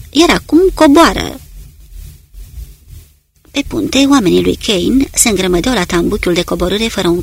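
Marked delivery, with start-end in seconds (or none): 0.1-1.4 higher, louder command; firm order. Acted. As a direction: push him down with the words. Comandantul îl împinge spre scară. (ordin ferm, mai sus și mai tare)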